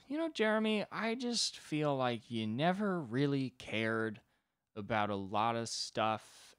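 slow, halting heart-to-heart, starting high; inarticulate God. Acted. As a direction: fumble through an awkward reproach, stretching words. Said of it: "if God wasn't well-spoken".

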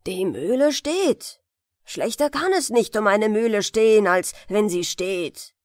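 leicht gespielter zankender alter Müller; schimpfender Müller. Acted. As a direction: die Tochter brummig ausschimpfen. Miller scolds his daughter. (alter Müller schimpft über Armut)

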